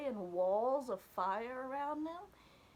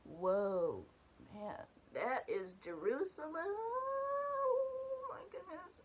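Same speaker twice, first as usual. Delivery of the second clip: a slow, much higher crying wail on the last words; awed and tearful; 5 semitones higher, slower than usual. Retold or imitated. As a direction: let the voice break into tears of awe. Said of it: "I was like".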